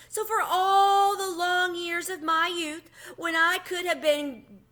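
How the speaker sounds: a mouse pitying his lost youth, high and slow; high and pitiful. A narrator's reading. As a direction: whine it out slowly and high. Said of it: "His voice became high and pitiful again".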